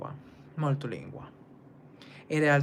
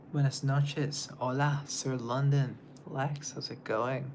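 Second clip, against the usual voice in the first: lightly put-on Mexican accent; slower than usual. Streamer greeting a viewer from the live chat, Mexican accent. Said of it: "It was a Mexican accent".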